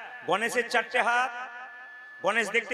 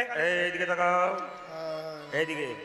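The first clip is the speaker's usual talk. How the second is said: demanding wife; 5 semitones lower, slower than usual. Acted. Wife demanding husband look.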